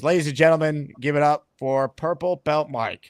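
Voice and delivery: slow, drawn-out ceremonial announcement; ring-announcer style hype with measured pauses; show announcer. Pretend. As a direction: build up a big live unveiling. Announces applause for guest.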